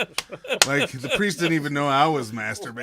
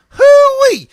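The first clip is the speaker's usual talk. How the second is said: redneck holler; 18 dB louder than usual. Acted. Redneck banter, loud holler.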